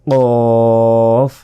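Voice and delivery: গলার ভিতর থেকে কফ; Arabic qaf from the throat. Shown as a demonstration. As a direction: push কফ up from the back of the throat. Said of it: "জিহ্বার গোড়া তার বরাবর উপরের".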